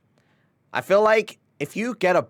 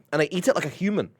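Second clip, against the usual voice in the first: whispering; 4 semitones higher, much faster than usual. Real, not acted. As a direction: whisper it in awe. Whispered in awe.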